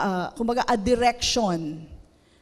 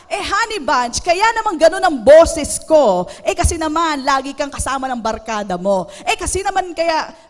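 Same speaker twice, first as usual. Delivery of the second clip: spouse voice climbing louder into a mock quarrel; rising mock quarrel; 5 dB louder than usual. Husband and wife slide into a bickering fight, mildly louder. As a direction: let the sweet talk turn into a mild mock argument. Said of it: "Nag-iiba na yung tono".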